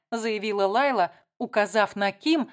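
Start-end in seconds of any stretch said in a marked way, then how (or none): none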